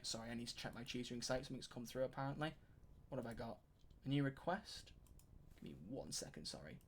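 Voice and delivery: talking away from the microphone to himself; distant aside off mic. Real, not acted. Checking tutoring site off mic.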